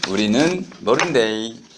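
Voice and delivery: 경상도 억양으로; Gyeongsang dialect. Shown as a demonstration. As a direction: say it like a Daegu local. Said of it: "경상도 버전으로는".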